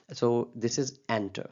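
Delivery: "enter" said very slowly with the weight on EN; stress on first syllable. Shown as a demonstration. Teacher showing students the stress in "enter", slow and deliberate. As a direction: lean on the EN of "enter", drawn out. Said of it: "तो फिर first syllable पर stress होगा".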